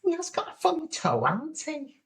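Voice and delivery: high, put-on questioning voice; high-pitched mock complaint; imitated contestant. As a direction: mimic her doubts way up high. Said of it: "And she says".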